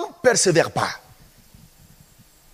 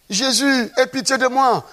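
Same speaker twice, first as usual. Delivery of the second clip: higher-pitched retold cry; 4 semitones higher than usual. Preacher acts out Bartimée's first plea to Jesus, crying out. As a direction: imitate a blind man calling out. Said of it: "il a commencé à crier".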